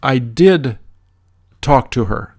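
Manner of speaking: "did" leaned on, then a drop; emphasize the verb "did"; stress on DID. Shown as a demonstration. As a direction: punch "did", let the rest fall away. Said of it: "when you want to emphasize the verb".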